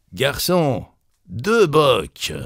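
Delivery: high, mock call to a waiter. A narrator's reading. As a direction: call your order across the café. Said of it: "il s'écria".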